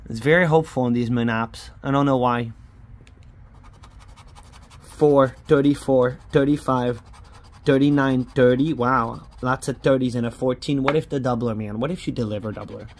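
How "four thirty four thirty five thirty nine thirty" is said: excited calling. Real, not acted. Calling numbers while scratching.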